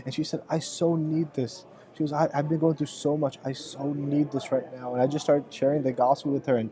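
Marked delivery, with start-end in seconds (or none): 0.5-1.6 slow, soft, mildly tearful; drawn-out soft plea, retold; retold tearful need. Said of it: "went into another level of crying". 2.1-4.9 soft, mildly overcome imitation; understated tearful need; retold tearful confession. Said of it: "went into another level of crying".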